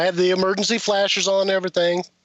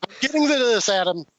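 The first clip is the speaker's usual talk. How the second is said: higher, laughing as he repeats it; laughing insistence; 4 semitones higher than usual. Real, not acted. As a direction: laugh it off while holding the floor. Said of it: "Calm down".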